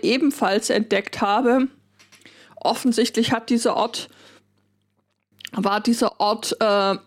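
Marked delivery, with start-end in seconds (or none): 5.5-7.0 throat catching mid-sentence; rough throat, fighting through it; frog in throat. Real, not acted. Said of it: "ich hab irgendwas im Hals".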